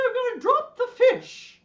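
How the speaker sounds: very high, loud sing-song; playful whooping falsetto, hammed up; Julia Child. Teacher imitating a TV cook who drops the fish, high sing-song. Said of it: "She was very sing-song".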